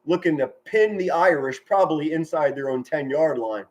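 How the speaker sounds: measured football commentary; sportscaster setting up the punt; live play-by-play. Real, not acted. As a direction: call the game for listeners, clearly and steadily.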